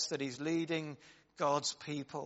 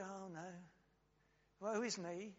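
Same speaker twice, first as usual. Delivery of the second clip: mock lament; 4 semitones higher, 10 dB quieter than usual. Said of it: "We go".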